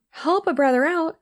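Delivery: high, mocking echo of her words; incredulous echo. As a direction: throw her phrase back in disbelief. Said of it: "like, help a brother out".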